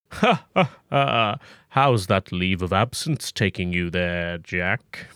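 slow, drawn-out villain greeting with a mock laugh; lightly villainous boss; evil voice. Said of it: "He's using his evil voice".

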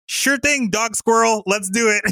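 high, eager mock-cheerful voice; bright-eyed sidekick going along; chirpy agreement. Characters cheerfully agree to dog squirrel.

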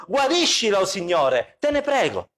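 high pleading plea to the Lord; a hint of a desperate cry to God. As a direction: beg God aloud to heal her, voice lifted high. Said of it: "gridò a Dio dicendo".

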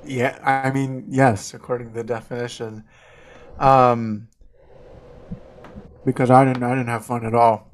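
talking through a mouthful of pudding; words round a big bite; mouth full. Real, not acted. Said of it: "which is why you sound like a chipmunk".

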